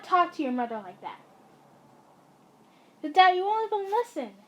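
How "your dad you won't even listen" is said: angry shout. Acted. Arguing back at the dad.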